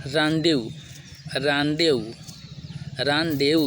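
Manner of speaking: "रांडेव" sounded out as raan-de-voo, separately each time; model pronunciation. Shown as a demonstration. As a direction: repeat "रांडेव" distinctly for learners. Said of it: "फिर अगला शब्द है".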